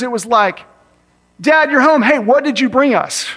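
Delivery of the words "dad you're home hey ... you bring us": put-on candy-eager kids. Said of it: "more excited about the candy than".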